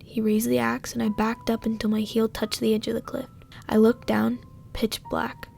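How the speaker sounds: hushed, tense story reading; scary story narration. Acted. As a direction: read it like a campfire horror tale. Reads a scary story aloud.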